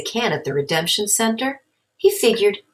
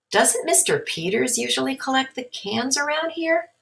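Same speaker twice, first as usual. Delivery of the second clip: mom's higher voice, gently probing; mother asking her son; questioning mom; 8 semitones higher than usual. Acted. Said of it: "his mom asked".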